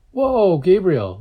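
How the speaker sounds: high, drawn-out, loud exclamation; startled whoa. A narrator's reading. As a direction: stretch the whoa high in surprise. Startled reaction to sick friend.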